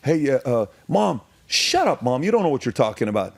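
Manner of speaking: put-on high, sneering bratty kid talking back; mocking teen voice. Teen mocking his mom, high and bratty. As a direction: whine it at Mom like a snotty teenager.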